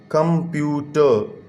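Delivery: कंप्यूटर in three beats, कं-प्यू-टर; split into syllables. Shown as a demonstration. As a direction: slowly separate कं, प्यू and टर. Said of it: "तीन syllable हो गए".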